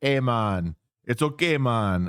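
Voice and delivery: easy, very slow put-on Jamaican accent. Recounting a woman's tv appearance, the speaker quotes her in a jamaican accent. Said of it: "she had a Jamaican accent".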